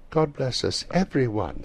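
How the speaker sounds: put-on high-pitched child's blessing; Tiny Tim's blessing. A narrator's reading. Tiny Tim joins the toast.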